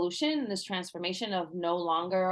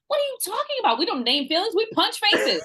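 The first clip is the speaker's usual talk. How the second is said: laughing mock tough; 12 semitones higher, 5 dB louder than usual. Mocking her angry old self.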